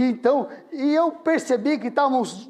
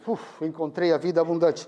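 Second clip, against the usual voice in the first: alívio; 3 semitones lower than usual. Retold or imitated. Alívio ao achar o versículo.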